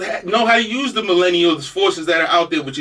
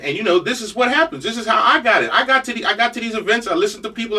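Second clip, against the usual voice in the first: usual speaking voice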